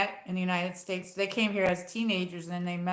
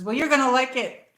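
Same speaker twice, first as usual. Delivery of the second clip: imitating grandma's Italian accent, higher, louder; accento italiano; 5 semitones higher, 6 dB louder than usual. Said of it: "in her accent".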